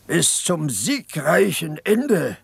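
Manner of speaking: slow, lightly mocking imitation of a young orator's cry; understated mock shout of a war slogan; mock rallying cry. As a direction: parody the boy's slogan without real volume. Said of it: "schrie er".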